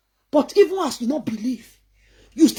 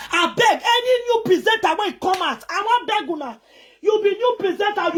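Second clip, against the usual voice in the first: shouted plea; 6 semitones higher than usual. Real, not acted. Calling out presenters.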